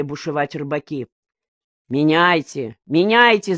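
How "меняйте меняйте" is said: giving in with an exasperated yell; shouting. Acted. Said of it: "закричал Коника".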